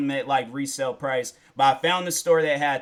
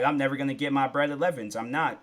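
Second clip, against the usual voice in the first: mild mock despair; faster than usual. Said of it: "So then I got sad".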